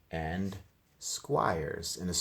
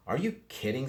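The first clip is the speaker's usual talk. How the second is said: little sister's voice; 7 semitones higher than usual. A narrator's reading. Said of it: "said D W".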